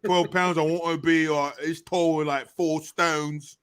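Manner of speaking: put-on British bloke; lightly hammed British accent; mock British accent. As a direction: parody a British haggler. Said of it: "talking to me in that accent".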